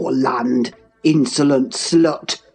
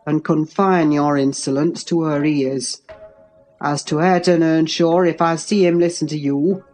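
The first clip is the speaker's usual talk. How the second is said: low, controlled menace; deep, measured threatening calm; assumed calmness; 4 semitones lower than usual. A narrator's reading. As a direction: hold the anger down in a deep voice. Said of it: "said with assumed calmness".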